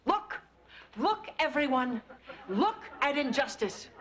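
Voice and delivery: high protest call to the room; rally everyone to look. Acted.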